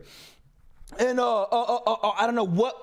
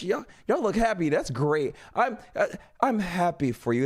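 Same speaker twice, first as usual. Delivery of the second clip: mock congratulations; 6 semitones lower than usual. Acted polite excuse to leave.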